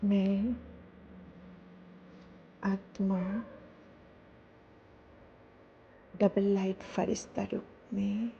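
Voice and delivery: measured devotional telling with long pauses. Real, not acted. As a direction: let each short phrase settle before the next. Recounts a meditative vision.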